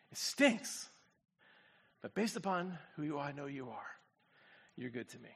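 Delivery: tender. Real, not acted. Tender aside after preaching.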